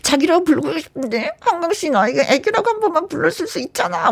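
high, cutesy pleading; cute lover voice. Pretend. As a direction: coax him sweetly. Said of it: "귀엽게 얘기해야 되나?". (귀엽게 애교 부리며)

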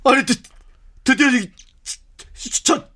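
high and stammering with thrill; excited. Real, not acted. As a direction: squeak it out in disbelief. Boss sees the right answer.

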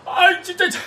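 half crying, half laughing complaint; tearful whining. Acted. Man on the bridge whining tearfully about his luck. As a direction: whine at your rotten luck.

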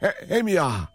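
put-on high, scolding old mother-in-law voice; shrill-pitched nagging granny. Listener poems as mother-in-law.

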